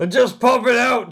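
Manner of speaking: loud, high, drawn-out holler; yelling back. Acted. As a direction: shout it across a long distance. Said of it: "yell back to Fiddle".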